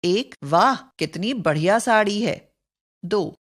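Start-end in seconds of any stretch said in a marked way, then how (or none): 0.4-2.5 lightly acted delight. Shown as a demonstration. Teacher demoing joy over a sari, mild delight. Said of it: "हर्ष या उल्लास सूचक".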